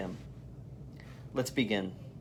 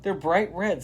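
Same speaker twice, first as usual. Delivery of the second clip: higher amazed question; a kid amazed at red creatures; lightly voiced surprised girl; 8 semitones higher than usual. A narrator's reading. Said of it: "says Jyoti".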